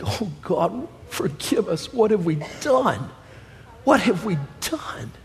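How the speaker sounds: a soft, hushed plea of repentance; mild mourning. Retold or imitated. Preacher softly voicing the weeping people's cry to God. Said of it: "they're weeping, they're crying".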